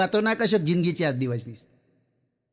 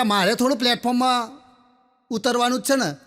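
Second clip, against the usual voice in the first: put-on higher old man's retort; 4 semitones higher than usual. Old man retorts about his ticket.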